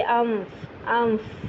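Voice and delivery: انف with brief nasal hum into fa; soft practiced انف; ikhfa on fa. Shown as a demonstration. Teacher isolating the ghunna before fa. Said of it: "تھوڑی دیر تک غنہ کریں گے".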